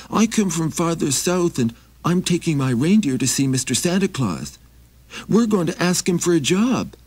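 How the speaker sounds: high, pleading little traveler; high begging wanderer voice; Maxie voice. Acted. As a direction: raise the pitch and ask humbly.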